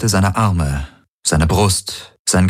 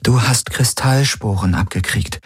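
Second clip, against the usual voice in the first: careful, gentle higher voice; gently; 5 semitones higher than usual. Acted. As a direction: break it to him gently. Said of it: "sagte Kirai behutsam".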